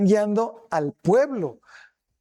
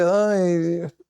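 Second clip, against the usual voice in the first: 1 annoyed sigh. Retold or imitated. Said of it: "tuvo una reacción de".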